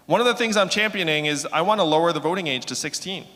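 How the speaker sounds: loud, rousing campaign speech; rally speech. Acted. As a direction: pump up the crowd, big and loud. Closing remarks to school crowd.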